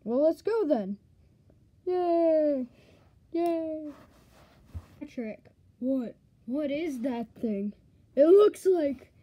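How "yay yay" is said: happy cheer. Acted.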